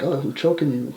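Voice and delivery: breathy stage whisper of the attacker; whispering the wrestler's line; mock whisper. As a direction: whisper it like a secret in the ring. Retelling a wrestling spot.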